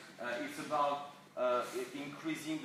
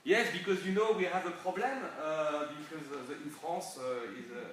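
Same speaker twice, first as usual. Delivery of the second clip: louder, hammed-up French accent in English; thick French accent; 5 dB louder than usual. French boss addressing international people, thick French accent. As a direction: imitate a French boss's bad English accent. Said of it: "he was talking like that".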